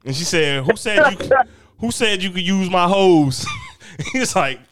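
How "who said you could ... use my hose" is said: imitated challenge from an annoyed mother; mock scolding mom. Mom challenging boy over hose.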